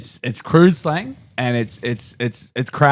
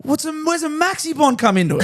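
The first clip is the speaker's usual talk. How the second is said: laughing; 13 semitones higher, faster than usual. Real, not acted. Laughing disbelief at the snack.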